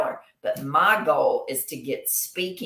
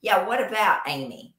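that inflection; 4 semitones higher than usual. Retold or imitated. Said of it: "just with that inflection".

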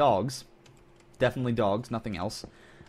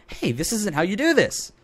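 mild mock yell; 9 semitones higher, 3 dB louder than usual. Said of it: "You probably were screaming".

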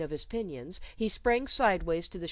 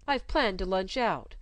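mildly plaintive governess; 2 semitones higher, 4 dB louder than usual. Acted. Governess asking the child not to mind, plaintive. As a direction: plead a little, plaintively.

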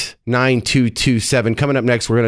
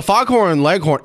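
put-on old Georgia accent; 5 semitones higher than usual. Shown as a demonstration. Host corrects guest on Foghorn Leghorn, in an old Georgia accent. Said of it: "it's the old Georgia accent".

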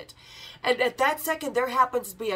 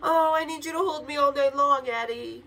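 higher, louder, hammed-up whimpering plea; mock damsel plea; 4 semitones higher, 4 dB louder than usual. Narrator teasing how she begged Eddie to stay the night, mock tearful plea. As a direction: play the helpless girl asking to be held, half-laughing.

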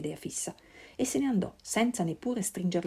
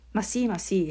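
impatient; 4 dB louder than usual. Acted. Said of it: "egli disse con impazienza".

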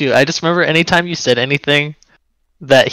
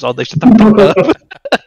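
mock irritated snap; 6 semitones higher, 4 dB louder, slower than usual. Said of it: "he's like".

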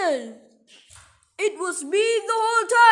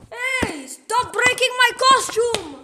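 raised, high complaining yell; indignant protest; 5 semitones higher than usual. Acted. Disguised dragon protests broken costume, indignant. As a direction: protest in a higher voice. Protesting damage during fight.

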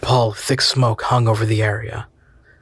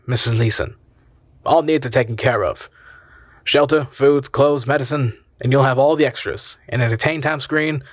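reassuring; 3 semitones higher than usual. Acted. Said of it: "smiled reassuringly".

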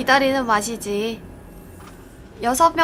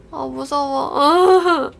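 scared; much slower than usual. Real, not acted. 무서운 게임 속 겁먹음.

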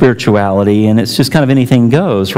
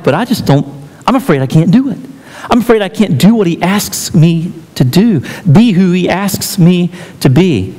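put-on a touch of a frightened young woman, higher; lightly voiced tearful young woman, unsure; mild afraid plea; 4 semitones higher than usual. Young woman confessing fear to preacher, lightly voiced.

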